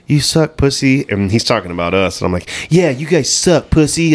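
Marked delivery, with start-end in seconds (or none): 0.1-1.0 raised-pitch gamer taunt; imitated trash talk. Other team talking shit online, lightly imitated taunt. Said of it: "other team will talk shit like". 2.7-4.1 raised-pitch mock agreement; mimicking taunt. Player repeating the other team's insults, mock agreeing taunt. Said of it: "I just repeat everything he says".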